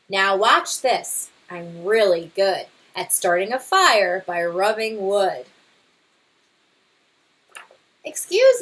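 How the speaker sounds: lively storybook read-aloud; reading to children. Acted. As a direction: read it to a class, bright and expressive. Teacher reads picture book aloud.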